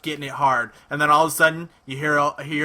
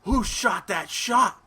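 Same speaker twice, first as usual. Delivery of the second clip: mock bewildered; 7 semitones higher, much slower than usual. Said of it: "you're like".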